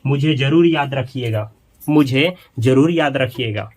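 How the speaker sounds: mild stress on जरूर as a gentle plea; pleading request. Shown as a demonstration. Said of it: "request की भावना के साथ जोर दे करके". (विनती के साथ जोर देकर)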